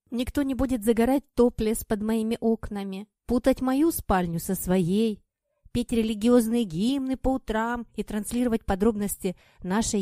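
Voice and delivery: loud, insistent husband pleading; loud persuading husband. Acted. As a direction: press her hard, loud and urgent. Kir's long loud persuasion.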